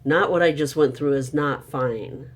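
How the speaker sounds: firm retold anger. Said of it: "And I'm like".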